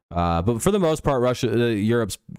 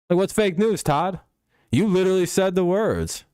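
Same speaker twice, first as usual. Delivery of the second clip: disbelieving, voice jumping higher; incredulous, pitched up; 8 semitones higher than usual. Real, not acted. Streamer calling out Todd for lying about retiring, incredulous. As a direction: throw up your hands at this.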